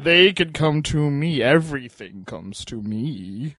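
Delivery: slow, drawn-out mock self-importance; lightly mocked haughtiness. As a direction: stretch it out like a pampered grandee. Acting out character refusing the stairs.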